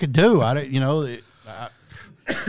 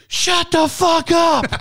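high, loud mock yell of an angry kid; kid's outburst; 7 dB louder, slower than usual. Man retelling the kid's outburst at the lady, high mock yell. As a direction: spit it out like a furious boy. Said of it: "he says".

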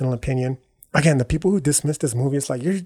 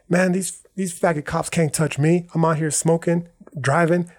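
higher-pitched, acted-out bravado; mock defiant boast; 4 semitones higher than usual. Tommy answers his worried friend's warning, mock defiance. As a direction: brush off the warning, lightly acted. Retold defiant reply about cops.

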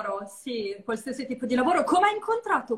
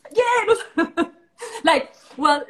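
laughing; 7 semitones higher, 8 dB louder, much slower than usual. Real, not acted. Laughing at the question.

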